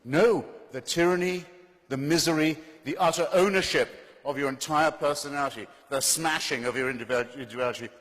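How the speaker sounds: high, loud, forceful oratory; impassioned denunciation. Real, not acted. Debater denouncing religion's tyranny to the audience, impassioned denunciation. Answers own challenge with indignant list.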